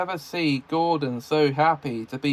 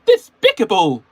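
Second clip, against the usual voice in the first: disgusted Henry voice; 8 semitones higher, 10 dB louder than usual. A narrator's reading. Henry scolding Percy.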